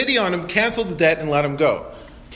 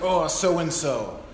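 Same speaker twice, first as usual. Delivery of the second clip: low, soft, drawn-out weary dread; grudging groan; 5 semitones lower, 5 dB quieter, much slower than usual. Acted. Pastor voices someone still holding a grudge, grudging and low. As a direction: draw the words out slowly, low and resentful. Voicing resentment at an offender.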